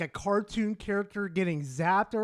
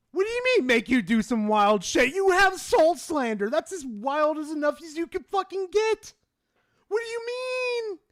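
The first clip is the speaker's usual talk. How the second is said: loud, high-pitched incredulous rant; indignant outburst; 8 semitones higher, 5 dB louder than usual. Real, not acted. Indignant outburst at a chat message.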